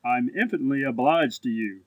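low, lofty politeness; polite young gentleman, deep-pitched; courteous. A narrator's reading. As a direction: thank them courteously with the pitch dropped. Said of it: "said the lamb courteously".

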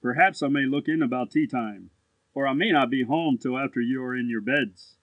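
put-on low, politely dismissive young gentleman; lofty, polite elder-brother voice; courteous. A narrator's reading. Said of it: "said the lamb courteously".

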